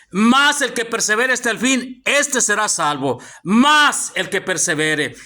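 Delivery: slow, deliberate scripture reading; emphatic verse reading. Real, not acted. Preacher reading verse thirteen to the congregation, slow and emphatic. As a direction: read it out slowly, weighing each phrase.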